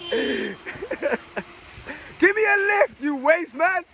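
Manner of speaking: shouting to drivers for a ride; calling out. Real, not acted. Pleading with passing drivers.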